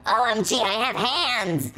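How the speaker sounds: high, slow overjoyed shout; excited shout. A narrator's reading. Melody thrilled at finding she has hands, shouting. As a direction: cry out in delight at new hands. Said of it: "Melody shouted".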